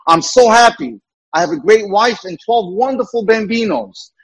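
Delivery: put-on Italian accent. Joke's Italian prisoner thanking the warden, mock Italian accent. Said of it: "in his Italian accent".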